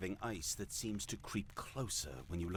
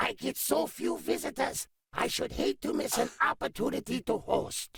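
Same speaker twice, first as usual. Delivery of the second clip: very high, loud, raspy, scratchy little creature voice; 11 dB louder than usual. Voicing a small ice creature greeting the wounded party in its cave, scratchy high-pitched creature voice. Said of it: "scratchy and high-pitched".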